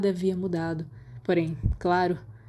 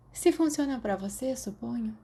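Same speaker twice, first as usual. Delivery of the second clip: put-on high, lively girl's voice; a curious schoolgirl pressing for gossip; Marlene's voice; 5 semitones higher than usual. A narrator's reading. (voz aguda de garota curiosa)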